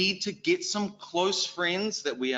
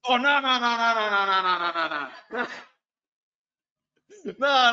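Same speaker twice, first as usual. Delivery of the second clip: hasty denial; 8 semitones higher, 5 dB louder than usual. Retold or imitated. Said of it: "Guess what I say as a New Zealand male?".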